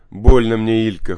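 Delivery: mildly whining complaint of pain; pained little whine, loud at the start; whimpering. A narrator's reading. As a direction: whimper it like a hurt child, understated. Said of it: "хнычет Сёма".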